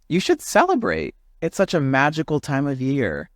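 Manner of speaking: high, sing-song encouraging bird; urging stork. Acted. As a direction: coax him into the holiday spirit. Marabou urging.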